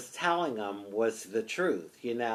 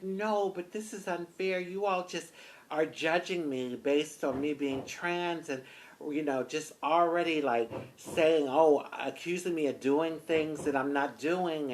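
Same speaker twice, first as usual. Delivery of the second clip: higher-pitched retold objection; upset protest; 4 semitones higher than usual. Driver objecting to being judged, somewhat upset. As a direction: plead unfairness, mildly worked up. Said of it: "I was really upset".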